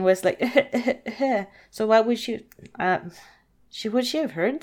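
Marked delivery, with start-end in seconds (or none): 0.5-1.4 short fake sobs; imitated boo-hoo in little bursts; mock crying. Narrator questioning how crying Cinderella heard anyone, mock crying. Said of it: "she was crying".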